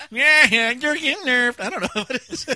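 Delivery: giggling through the words, high; laughing. Real, not acted. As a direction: talk while cracking up. Cracking up over the nerf.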